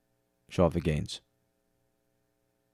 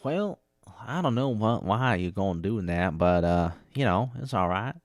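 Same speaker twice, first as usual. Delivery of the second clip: southern accent. Shown as a demonstration. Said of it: "used to be able to pull it out".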